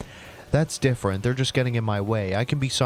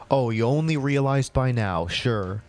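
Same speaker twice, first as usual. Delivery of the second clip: sarcastic. Acted. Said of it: "what was the freaking thought process".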